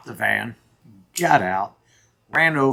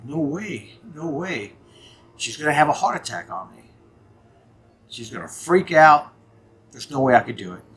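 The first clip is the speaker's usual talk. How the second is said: agitated inner protest; 4 semitones higher, 3 dB louder than usual. Retold or imitated. Arguing with himself about stopping.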